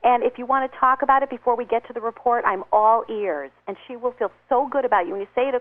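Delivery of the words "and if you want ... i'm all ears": kind concerned offer. Shown as a demonstration. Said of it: "And you just say".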